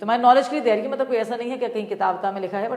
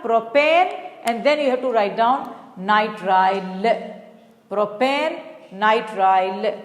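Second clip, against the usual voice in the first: slow dictation; 2 semitones lower, much slower than usual. Shown as a demonstration. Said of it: "क्या लिखेंगे आप".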